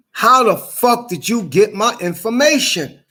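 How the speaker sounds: outraged questioning; angry demand. Real, not acted. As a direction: demand an answer, voice rising in anger.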